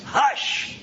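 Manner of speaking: forceful, drawn-out hush; stern order to be silent; severe, solemn hush. Shown as a demonstration. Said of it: "much more severe and solemn form".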